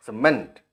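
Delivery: CEMENT with the weight on MENT; teacher modelling stress in CEMENT; word stress demo. Shown as a demonstration. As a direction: stress the second syllable, ce-MENT. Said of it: "यहाँ पर stress mark".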